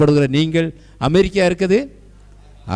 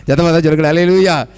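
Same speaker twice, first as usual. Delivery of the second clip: loud hallelujah call to the congregation; raised, urging preacher's cry; rallying call; 6 dB louder than usual. Real, not acted. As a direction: call out for a louder response.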